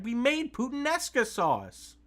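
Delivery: high, loud pleading cry. Acted. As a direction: plead loudly with the villain. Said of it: "Violet cried".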